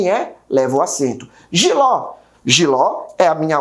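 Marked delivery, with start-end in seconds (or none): 1.5-2.1 Jiló with "ló" lifted and pushed; "Jiló", final syllable stressed; stress on last syllable. Shown as a demonstration. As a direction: land firmly on the "ló" of Jiló. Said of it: "o ló é pronunciado com mais força".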